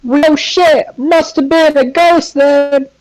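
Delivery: very high, slow, put-on squeaky voice; mock squeal. Cracking a joke at the co-host, high squeaky mock voice. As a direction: squeal it like a startled cartoon.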